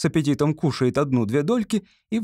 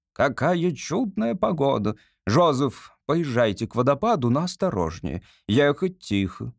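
stern grand lady. Acted. Society lady ordering her servant Joseph, haughty and measured. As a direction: give orders from the carriage coolly. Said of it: "говорит серьёзным резким голосом".

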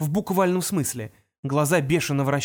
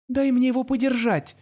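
through teeth; 9 semitones higher than usual. A narrator's reading. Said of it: "процедила Ангелина".

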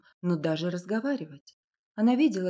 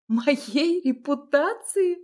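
high, slow, louder echo of his words; bitter disbelief; 7 semitones higher, 6 dB louder, much slower than usual. A narrator's reading. A wronged woman mocks his concern, scornfully.

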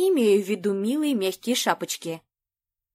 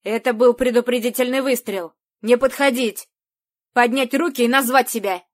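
distorted loudspeaker voice; 5 dB louder than usual. Acted. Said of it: "скрежетал искажённый техническими шумами голос".

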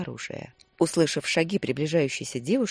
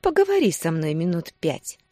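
mocking coo; 4 dB louder than usual. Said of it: "с издёвкой проворковала она".

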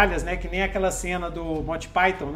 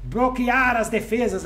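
put-on Eudeucoron accent; 6 semitones higher, 4 dB louder than usual. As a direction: speak with the stately Eudeucoron accent. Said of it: "Eudeucoron fala desse jeito".

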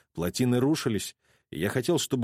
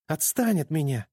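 shout; 5 semitones higher than usual. A narrator's reading. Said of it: "закричала Амелия".

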